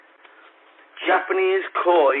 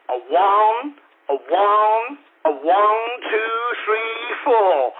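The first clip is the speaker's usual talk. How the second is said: shouted one two three four; counting in; 5 semitones higher, slower than usual. Pretend. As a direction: count it in like a rock band. Counting in like a band.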